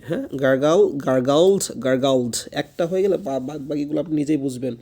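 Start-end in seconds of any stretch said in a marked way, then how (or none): 0.4-2.4 "গার্গল", then "গার্গলড" with a clear final d/t; firm drill of "গার্গলড", ending sounded; pronunciation model. Shown as a demonstration. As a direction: project "গার্গলড" for learners to copy. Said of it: "উচ্চারণটা শুনে শুনে করতে হবে".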